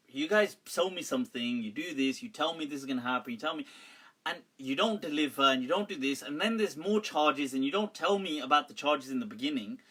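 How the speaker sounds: rapid run of complaints, voice kept fairly low; retold rant, piling up grievances quickly; ranting back. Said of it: "here's me ranting back now".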